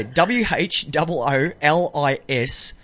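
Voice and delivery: very slow letter-by-letter spelling; spelling slowly. Shown as a demonstration. Retrying the blog address for listeners, slowly spelled. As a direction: spell it carefully this time. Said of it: "I'll get it right on the night".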